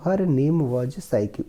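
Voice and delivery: slow, careful reading of the English passage; slow reading aloud. Shown as a demonstration. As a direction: read each word slowly for the class. Teacher reads story slowly. (धीमी आवाज़ में अंग्रेज़ी पढ़ना)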